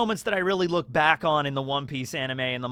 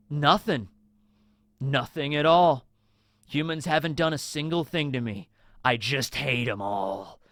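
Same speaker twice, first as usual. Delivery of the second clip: cold villain reply; 2 semitones lower than usual. Retold or imitated. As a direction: drop it flat and chilling, each word weighed. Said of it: "And then Hody is just like".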